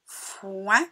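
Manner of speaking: "foin" with a long f sliding into oin; blending demonstration. Shown as a demonstration. Teacher blending F with oin for pupils, "foin" drawn out. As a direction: stretch "foin": fff-oin, rising. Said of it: "nous avons le son ouin".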